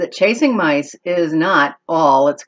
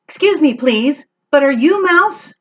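high, polite kitten voice; polite kitten Max; 9 semitones higher, 4 dB louder than usual. Acted. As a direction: ask very politely, rising on Mouse. Max asks the birds.

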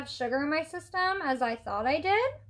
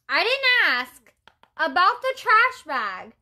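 louder, higher and slowed, hitting each word; indignant repeat; 4 semitones higher, 4 dB louder than usual. Acted. Vlogger venting to viewers about his excuse, loud and indignant.

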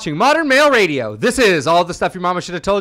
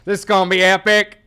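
put-on twangy American accent; 3 semitones higher, 4 dB louder than usual. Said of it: "American accent's got a twang".

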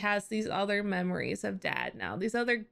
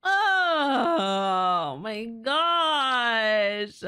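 drawn-out, louder cry; 6 dB louder, much slower than usual. Real, not acted. Viewer overwhelmed by the sad scene, openly crying. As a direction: let the words stretch out into a real cry.

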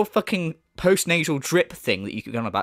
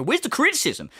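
mocking mimicry; 5 semitones higher than usual. Mimics a clueless viewer's question.

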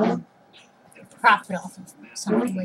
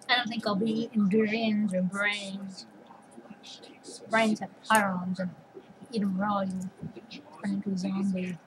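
whispering; 5 dB quieter than usual. Real, not acted. Whispered musing on food.

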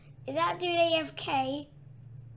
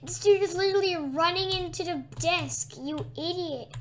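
exasperated shout; 5 dB louder than usual. Real, not acted. Yelling at clumsy teammate.

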